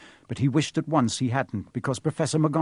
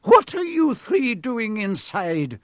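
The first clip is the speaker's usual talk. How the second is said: higher, slow stern teacher voice ringing out; McGonagall, stern; 9 semitones higher, 3 dB louder, slower than usual. Acted. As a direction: ring it across the hall sternly. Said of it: "a voice suddenly rang across".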